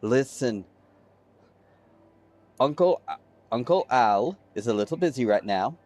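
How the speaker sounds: kindly uncle calming his niece, lightly voiced; sweet uncle. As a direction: soften it like a doting uncle. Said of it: "he smiles the sweetest smile at this little girl".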